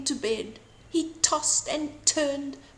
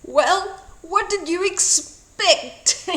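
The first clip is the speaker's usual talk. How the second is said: playful teasing; 8 semitones higher, 6 dB louder, slower than usual. A narrator's reading. Children tease, wolf retorts.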